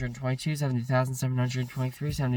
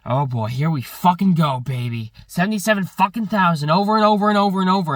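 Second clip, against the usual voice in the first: loud, higher, exasperated venting while counting; frustrated outburst; 5 semitones higher, 8 dB louder than usual. Real, not acted. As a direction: blow up at the endless numbers, loud and high.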